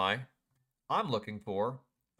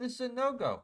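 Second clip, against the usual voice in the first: even higher "This is a no-go", falling firmly at the end; market's verdict again; 13 semitones higher than usual. Retold or imitated. Trader repeating the market's no-go, high and firm. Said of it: "It said".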